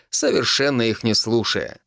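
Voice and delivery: plain reading voice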